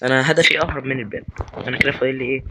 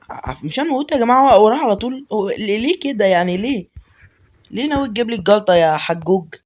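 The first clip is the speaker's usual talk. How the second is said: panicked high pleading; 7 semitones higher than usual. Real, not acted.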